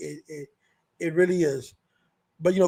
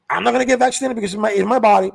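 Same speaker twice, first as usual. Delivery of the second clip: fast mock refusal; 6 dB louder, faster than usual. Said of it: "you say".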